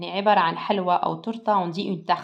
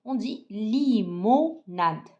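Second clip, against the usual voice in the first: slow model word; 2 semitones higher, much slower than usual. Shown as a demonstration. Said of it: "Alors avec moi".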